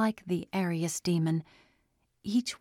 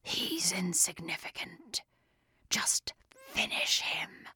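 demon voice; 7 dB quieter than usual. A narrator's reading. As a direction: dismiss him like vermin. Creature dismissing Chris.

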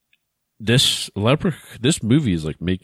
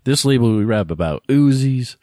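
louder, punched-out boastful quote; acted rapper rant; 3 semitones higher, 5 dB louder than usual. Quoting a rapper on his label, acted rant. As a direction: lay down the label's rules like a tough boss.

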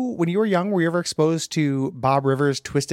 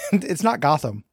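laughing whisper. Real, not acted. Laughing aside.

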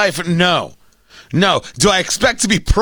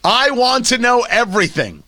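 mock excited caption; 4 semitones higher than usual. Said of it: "And the caption is".

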